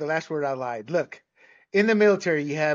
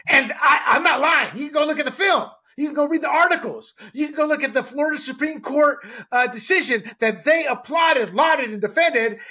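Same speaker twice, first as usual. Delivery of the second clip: heated rant; 6 semitones higher, 3 dB louder than usual. Real, not acted. Heated rant about journalism.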